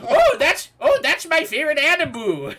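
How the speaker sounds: very high, loud squeal of delight; hammed-up excited character voice; gushing fan. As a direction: burst out high, thrilled. Playing an excited anime fan.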